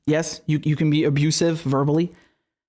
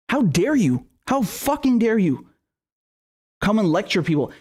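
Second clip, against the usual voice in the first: indignant anger. Real, not acted. Scolding a congresswoman for lecturing people, indignant. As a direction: scold them, drawing out the repeated challenge.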